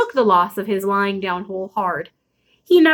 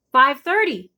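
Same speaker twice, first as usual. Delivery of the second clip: called back; 4 semitones higher, slower than usual. Acted. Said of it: "I called back".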